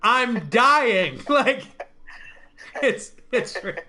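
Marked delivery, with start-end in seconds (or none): 0.0-1.2 loud, high, slow mock speech; drawn-out, exasperated comic declamation; Norm Macdonald impression. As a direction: proclaim it like a comic hamming up a farewell address. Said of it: "and then he goes".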